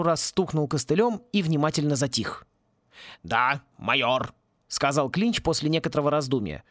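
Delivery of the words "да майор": slow musing reply; drawn out as he recalls his rank; slow, thoughtful. A narrator's reading. Клинч remembers, slow. (медленно, задумчиво)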